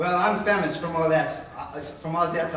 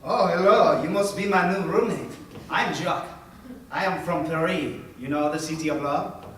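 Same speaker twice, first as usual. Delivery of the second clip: put-on light French accent; a hint of French in the English; friendly host with a mild French accent. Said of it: "with a French accent".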